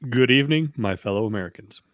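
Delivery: slow gravelly statesman. Acted. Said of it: "channeling some Cronkite".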